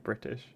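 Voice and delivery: "British" with an actual T in the middle; "British" with a crisp T, as a German learner says it; German-style hard T. Shown as a demonstration. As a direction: say "British" with the T clearly sounded. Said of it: "if a German person says British".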